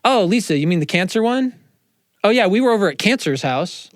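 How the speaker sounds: mock someone labeling a friend by illness; mock cancer label. Mocking a friend who labels Lisa by her cancer. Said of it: "I wouldn't be like".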